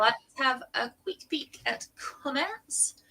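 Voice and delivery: soft, slow, unvoiced whisper. Real, not acted. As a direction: slowly whisper it as an aside. Aside while opening the comments.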